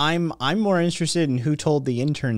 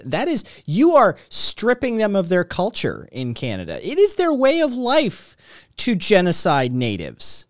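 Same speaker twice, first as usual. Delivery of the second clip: mock outrage; 3 semitones higher than usual. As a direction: play up fake indignation. Mock outrage defending Canadians.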